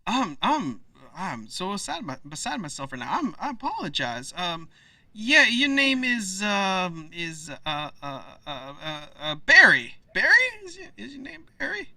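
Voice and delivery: high, stammering mayor; flustered mayor. Acted. Mayor pretending to remember Barry, high and flustered. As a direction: bluff through not knowing the name.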